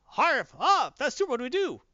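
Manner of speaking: high, flustered outburst; acted alarm. Russian supers reacting to Superman, high alarmed cry. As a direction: start loud and high, in mock panic.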